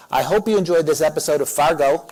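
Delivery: a mock Minnesota accent, played for laughs; awful Minnesota accent. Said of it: "for my awful accent".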